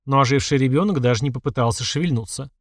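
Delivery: ordinary delivery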